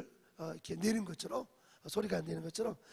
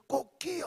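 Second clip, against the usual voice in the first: higher-pitched imitated rooster crow; 8 semitones higher, 4 dB louder than usual. Preacher imitates the dawn rooster, higher mock crow.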